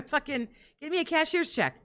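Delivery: high laughing mock demand; mocking impression. Cohost mocking the begging, high and laughing. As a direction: cackle through the fake demand. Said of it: "mocking streamer begging".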